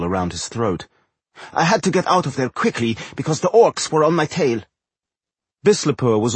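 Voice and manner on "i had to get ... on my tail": high-pitched little gnome voice; high gnome character voice; gnome reporting. A narrator's reading. Narrator plays the gnome.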